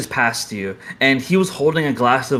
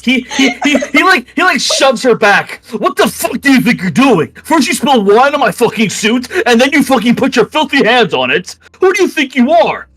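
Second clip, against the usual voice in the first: loud, high yelling at her; enraged nobleman; 10 semitones higher, 5 dB louder than usual. Acted. Nobleman screaming at the girl who spilled wine, loud. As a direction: shove the words at her, furious.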